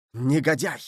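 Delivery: mildly indignant exclamation; understated angry cry. A narrator's reading. Aramis at the passing killer, crying out mildly. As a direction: throw the insult after him. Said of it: "крикнул Арамис".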